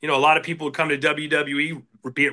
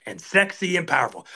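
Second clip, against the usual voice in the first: hammy announcer read; 4 semitones higher, slower than usual. Retold or imitated. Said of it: "And I'd be like".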